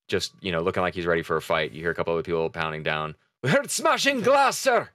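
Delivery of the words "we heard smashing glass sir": shouted report from crewman; high crewman voice. Acted. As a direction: call it out, urgent.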